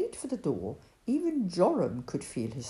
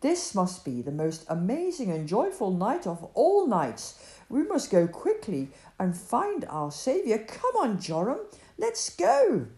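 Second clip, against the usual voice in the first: rising, eager call to hurry; Obed urging Joram to come quickly; excited urging; 4 semitones higher, 6 dB louder than usual. Acted. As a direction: hurry them along, thrilled.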